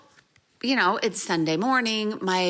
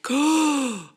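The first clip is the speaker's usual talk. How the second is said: surprised; 5 semitones higher, 3 dB louder than usual. Retold or imitated. Realizing husband never paid.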